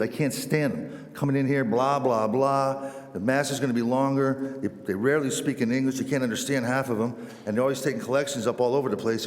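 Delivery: mildly exasperated retold rant; grumbling rant. Old parishioner complains about missionaries to his neighbour, mildly exasperated. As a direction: rattle off the grievances, mock-fed-up.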